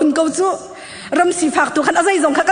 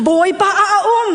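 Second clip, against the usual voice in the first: higher-pitched, emphatic proclamation; raised declaration; 4 semitones higher than usual. Real, not acted. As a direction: lift the voice to proclaim it. Repeats declaration raised after Hallelujah. (aw sang tein)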